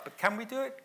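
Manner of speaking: rising, rousing call to the crowd; rallying question. Real, not acted. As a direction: lift it up high like a rally cry. Rhetorical rallying question to audience.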